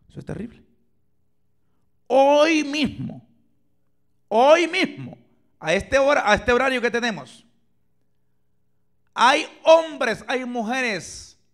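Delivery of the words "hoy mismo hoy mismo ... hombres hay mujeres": slow, loud, high cry; preaching shout. Real, not acted. Preacher crying out to the congregation, loud and high. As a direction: call it out to wake them.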